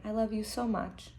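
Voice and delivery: hushed, tender bedtime voice; soft mother. Acted. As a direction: soothe a child to sleep. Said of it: "she said very softly".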